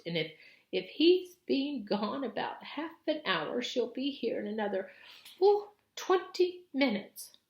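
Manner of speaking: high, loud, rising alarm; urgent Missus Beaver. Acted. Missus Beaver warning that the witch is coming, high and urgent. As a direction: warn them time is running out.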